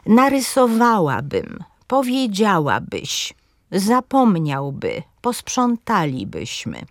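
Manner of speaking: narysoWAłabym, powieDZIAłabyś, zapoMNIAłby and posprzątaLIbyśmy, the last two slowly; stress on third-last syllable. Shown as a demonstration. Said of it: "pada na trzecią sylabę".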